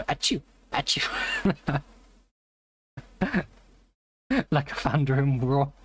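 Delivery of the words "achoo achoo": slow mock sneezes. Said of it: "they hear and they go".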